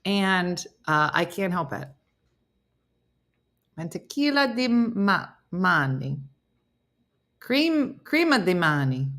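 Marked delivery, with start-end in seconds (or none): 3.8-6.2 halting Spanish with an Italian lilt; mildly Italian-accented Spanish; Italian-sounding Spanish. Shown as a demonstration. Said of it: "It's not Italian". 8.0-9.1 Spanish with a light Italian lilt; slightly Italian-accented Spanish; Italian-sounding Spanish. Shown as a demonstration. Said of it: "It's not Italian".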